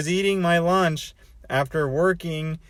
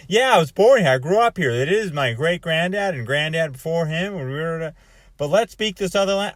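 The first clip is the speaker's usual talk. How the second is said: eager stranger, louder; excited insistent stranger; 6 dB louder than usual. Retold or imitated. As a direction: brush off the objection, keep pushing. Stranger insists in retold argument.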